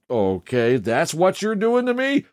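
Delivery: mildly incredulous, pitch climbing high into the question; mock indignation. Teen daughter confronts dad over the unplugged TV, mock indignant. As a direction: imitate a teen catching on, rising in disbelief.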